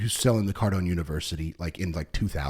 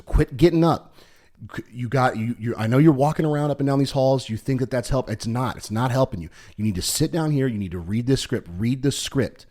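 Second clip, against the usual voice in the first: football coach; 3 semitones higher than usual. Retold or imitated. Sales boss ordering his rep back to the script, mock coach's telling-off. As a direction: imitate a coach firmly telling off a player. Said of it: "like a football coach".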